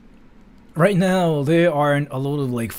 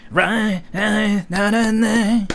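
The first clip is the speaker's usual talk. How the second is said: higher-pitched chanted syllables; raised, evenly held announcer chant; Nippon Marathon announcer; 6 semitones higher, much slower than usual. Shown as a demonstration. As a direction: riff on wordless syllables in the announcer voice. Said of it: "the announcer from Nippon Marathon".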